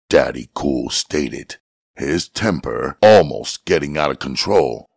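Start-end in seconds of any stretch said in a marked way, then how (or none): none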